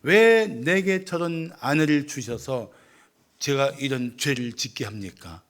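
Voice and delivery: drawn-out, mildly protesting question; lightly acted complaint, slow at first; complaining to God. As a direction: stretch the "why" into a grievance, then let it drop. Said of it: "이렇게 불평하고 있는 것입니다".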